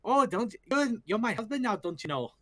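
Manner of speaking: put-on a light Midwestern Michigan accent, singsong; mock Michigan accent. Teasing a fan about Rarity's family, light Michigan accent. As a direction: put on a Michigan twang playfully. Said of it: "like, Michiganers".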